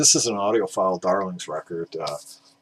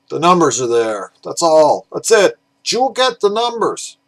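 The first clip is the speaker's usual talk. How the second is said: loud, hammed-up German accent, pitched higher toward the end; mock German accent; 7 semitones higher, 9 dB louder than usual. Collector mocking a typical German pressing in a loud fake German accent. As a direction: bark it out in a bad German accent. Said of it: "that was supposed to be German".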